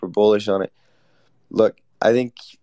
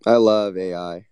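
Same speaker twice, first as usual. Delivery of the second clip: insincere; 5 dB louder than usual. Acted. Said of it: "it can tell you're not sincere".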